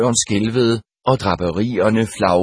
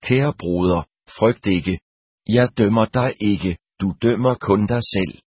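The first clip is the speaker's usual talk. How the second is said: mild and calm. Acted. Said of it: "sagde med en mild og rolig stemme".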